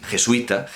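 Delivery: "jesuita" with ui run together in one syllable; "jesuita" with no break between u and i; jesuita as diphthong. Shown as a demonstration. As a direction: say "jesuita" as je-SUI-ta, three syllables. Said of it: "un vulgarismo el que alguien diga".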